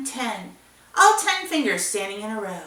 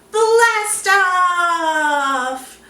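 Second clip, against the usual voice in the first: loud, high cheering shout; big blast off; 7 semitones higher, 6 dB louder than usual. Acted. Teacher cheers the rocket launch for kids, loud shout.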